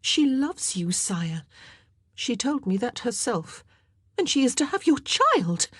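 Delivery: high, panicky plea to the king; panicked queen. A narrator's reading. Queen pleading with the king in panic. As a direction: let the fear rise into a pleading voice. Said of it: "Mary's panic was becoming evident in her shrill voice".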